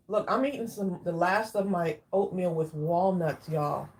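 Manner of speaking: talking through a mouthful; chewing while talking. Real, not acted. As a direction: chew and talk. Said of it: "I'm sorry if you hear me chewing".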